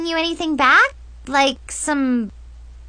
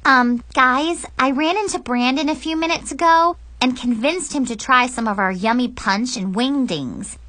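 put-on higher girlish voice, covering up; over-casual, pitched-up pleading; nervous excuse; 5 semitones higher than usual. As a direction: ask a favour while fibbing lightly. Girl makes an excuse to friends.

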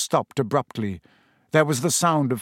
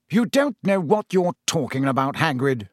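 sharp; 3 semitones higher than usual. Acted. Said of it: "said Fudge sharply".

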